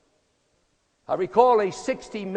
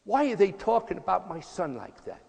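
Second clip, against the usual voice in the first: higher, upset mother calling to her husband; a mother protesting to her husband about the TV; indignant mother; 4 semitones higher than usual. Retold or imitated. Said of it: "she says".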